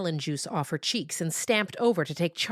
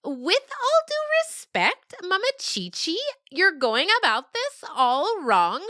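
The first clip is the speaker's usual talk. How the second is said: earnest yearling; 14 semitones higher, 4 dB louder than usual. Acted. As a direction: lecture the elder with mock formality. Yearling lecturing elder.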